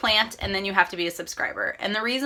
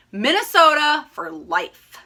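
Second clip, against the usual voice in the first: higher, slow rallying cry; proud cheer; 7 semitones higher, 5 dB louder, slower than usual. Real, not acted. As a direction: declare it proudly and slowly.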